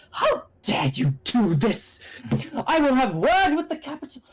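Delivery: acted indignant outcry, pitch soaring; hammed-up high-pitched protest; outraged yelling. Arrested king's party to the troops, outraged yelling. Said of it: "currently yelling in outrage".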